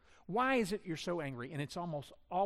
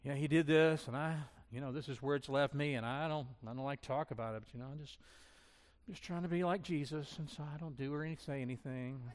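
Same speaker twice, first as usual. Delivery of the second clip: mock martyr. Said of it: "Or we become a martyr".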